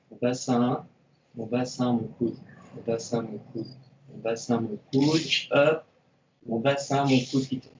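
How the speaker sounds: slow rhythmic cues, one body part per beat; slow counted cues. Shown as a demonstration. Instructor to class, slow counted coaching cues.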